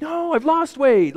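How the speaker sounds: a hammed-up offended dieter's high protest; indignant protest. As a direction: squeal the correction in wounded disbelief. Indignant reply to the coworker.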